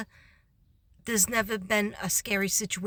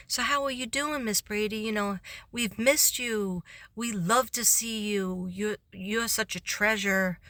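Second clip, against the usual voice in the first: sweet secretary. Retold or imitated. Secretary complimenting her.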